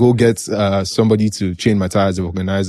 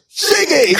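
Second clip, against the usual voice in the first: higher mock curse; 5 dB louder than usual. Cursing the officials while driving, mock curse. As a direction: spit out the curse. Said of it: "I'm like".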